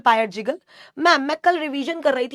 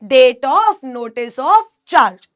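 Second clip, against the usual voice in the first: slow dictation; 3 dB louder, much slower than usual. Shown as a demonstration. Dictating section title slowly.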